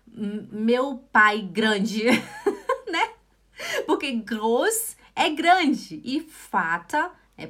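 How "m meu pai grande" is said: slow literal rendering. Shown as a demonstration. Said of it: "Se for traduzir ao pé da letra".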